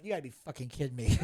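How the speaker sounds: low, soft, fast disbelief; a light imitation of a fed-up mom; mom impression. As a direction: mutter it like an embarrassed mom. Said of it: "my mom walked in and went".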